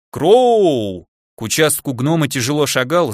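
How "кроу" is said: drawn-out, higher call of the name; окрик издалека. A narrator's reading. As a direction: holler the name across the yard. Summoned from afar by angry foreman. (протяжный громкий окрик)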